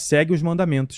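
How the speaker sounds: ordinary talk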